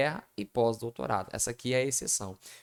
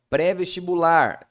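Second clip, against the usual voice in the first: Pré-vestibular spelled out slowly, syllable by syllable; teacher drawing out Pré-vestibular; slow careful demo; 4 semitones higher, 8 dB louder than usual. Shown as a demonstration. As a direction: read Pré-vestibular loud and deliberate.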